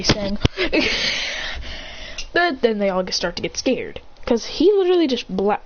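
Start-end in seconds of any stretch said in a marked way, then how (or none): 0.4-2.3 high, voiceless snicker; mock giggling, pitched up; funny laughter. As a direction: imitate a group laughing. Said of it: "Everyone just laughed funnily".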